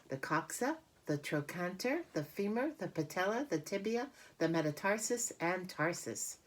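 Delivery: name each part carefully as Charlotte; spider Charlotte voice. Acted. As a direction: Charlotte repeating the names for Wilbur. Charlotte repeats leg names.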